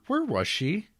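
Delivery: hammed-up alarm as he searches; mock frantic where-is-she; frantic searching.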